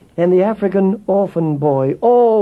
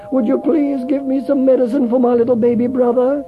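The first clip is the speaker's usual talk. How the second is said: put-on higher, small pleading girl's voice; little girl; 7 semitones higher than usual. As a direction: ask shyly like a small girl. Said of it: "the little girl said".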